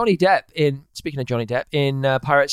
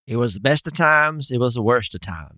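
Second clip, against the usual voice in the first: put-on American accent; 3 semitones lower than usual. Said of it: "That's a little southern twang".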